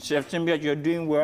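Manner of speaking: talking while chewing; mouth full. Real, not acted. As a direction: talk through a mouthful. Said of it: "Don't talk with your mouth full".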